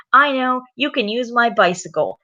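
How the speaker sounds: bright idea. Acted. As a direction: pipe up with a sudden idea. Peppa has an idea.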